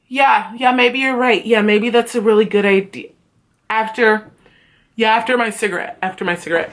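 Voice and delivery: fob someone off with vague agreement; noncommittal. Retold or imitated. Teacher putting student off for a cigarette, offhand.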